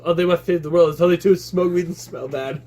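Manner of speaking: hippie voice put on; mocking hippie voice. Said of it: "That voice you're doing".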